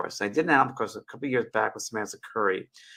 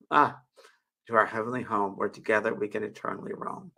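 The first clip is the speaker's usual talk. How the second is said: poem reading. Acted. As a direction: read gently as a heartfelt poem. Reads her poem aloud.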